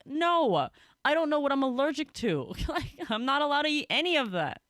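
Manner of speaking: high, whiny retold refusal; mock-exasperated refusal; exasperated protest. Retold protest at offered food.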